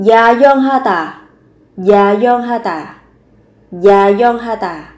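Yayeonghada said slowly, syllable by syllable; pronunciation drill. Shown as a demonstration. Teacher drills Yayeonghada for students, very slow. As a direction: stretch out Yayeonghada. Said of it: "word drilled slowly".

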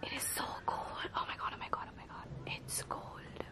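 shivering whisper in the cold; breathy whispered gasps; gasping in icy wind. Real, not acted. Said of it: "I don't know why I'm whispering".

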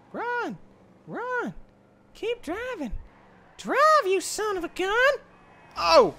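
very high, screamed urging; frantic shouting. Real, not acted. Gamer yelling at the driver to escape. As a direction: shriek at the car to go.

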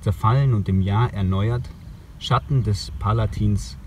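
measured poetry recital with pauses between phrases; poem reading. Acted. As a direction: read the poem line by line, letting each image stand. Reads a poem aloud outdoors. (Gedichtlesung, getragen mit Pausen)

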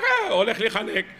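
mock choking yell of panic; retold panicked cry. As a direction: cry out as if being strangled. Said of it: "והוא צעק".

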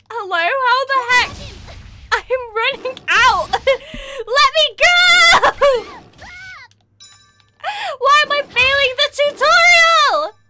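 high, loud desperate whine; frustrated yell. Real, not acted. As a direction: yell in disbelief at failing. Chased, failing the tutorial.

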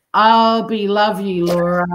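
stumbling over the words, I'll be love you; slurred misreading, I'll be love you, Laura; garbled reading. Shown as a demonstration. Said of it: "that's not right".

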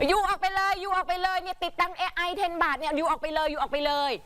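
a hint of a shopkeeper shouting in broken English; mock shopkeeper yelling. Shopkeeper ordering the drunk foreigner out, mild mock yell. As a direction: throw him out, lightly voiced. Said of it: "ชี้หน้าด่า".

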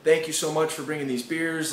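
excited party friends cheering; partygoers praising. Retold or imitated. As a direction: hype him up like a party bro. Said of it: "and everyone's like".

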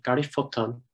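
Garifutton with a short "foot" vowel in fut; Garifutton, clearly sounded U in futton; local pronunciation. Shown as a demonstration. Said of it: "it's pronounced Garifutton very clearly".

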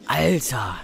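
breathed out, no voice; a real awed whisper; stunned whisper. Real, not acted. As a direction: whisper it in disbelief. Stunned after jumpscare.

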